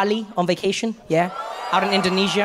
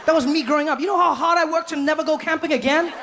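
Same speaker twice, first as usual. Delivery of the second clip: laughing disbelief; 8 semitones higher than usual. Retold or imitated. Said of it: "I'm like".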